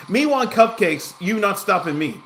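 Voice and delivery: hammed-up primitive craving for cupcakes; caveman talk. Caveman-style rewording of his craving.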